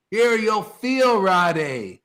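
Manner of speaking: slow, drawn-out proclaiming shout. Acted. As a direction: call it out slowly to the whole room. Preaching, shout heard.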